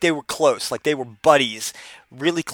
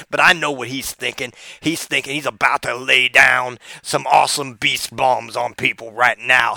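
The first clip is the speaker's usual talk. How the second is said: Booker T impression. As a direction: spin the tall tale with swagger. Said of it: "here's another one".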